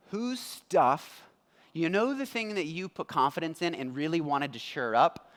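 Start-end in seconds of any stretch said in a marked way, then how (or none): 0.1-1.2 gentle question. Shown as a demonstration. Preacher showing how God really asks it, gentle and probing. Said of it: "he says it in a very, like".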